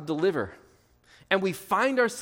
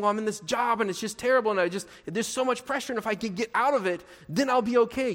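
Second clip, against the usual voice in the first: higher, hurried complaint; mock complaining; 5 semitones higher than usual. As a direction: lightly act out a worker desperate to get out. Acting out a stressed worker complaining.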